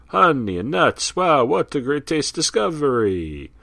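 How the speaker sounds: high, loud, thrilled exclaim; over-the-top cartoon delight; excited declaration. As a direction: announce a thrilling discovery. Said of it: "Columbus declared".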